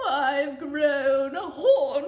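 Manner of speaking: loud, slow sung unicorn whinny. Acted. Unicorn whinnying to the doctors about its horn. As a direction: neigh the words out.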